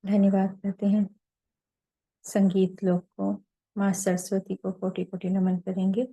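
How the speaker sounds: unhurried meditation leader, long pauses between phrases; guided meditation. Real, not acted. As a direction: lead them gently into silence, phrase by phrase.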